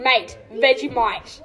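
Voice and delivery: slow, drawn-out mock Aussie accent; Australian accent. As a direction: stretch out a jokey Australian accent, laughing. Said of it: "say the most Australian thing you've ever said".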